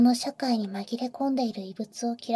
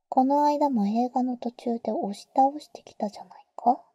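teasing whisper. Acted. Older sister teasing the boy in his ear, whisper.

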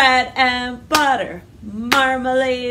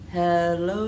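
slow; 6 semitones lower, 3 dB quieter than usual. Shown as a demonstration. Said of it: "Let's say hello as slow as we can".

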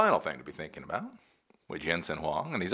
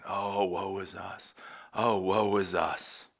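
mock moaning; slower than usual. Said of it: "they were all moaning".

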